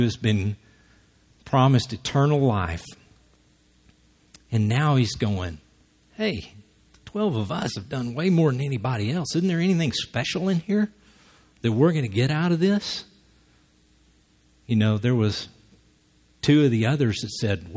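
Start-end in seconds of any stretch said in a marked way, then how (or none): 6.2-13.0 whiny Peter. Retold or imitated. Peter voiced, wanting reward.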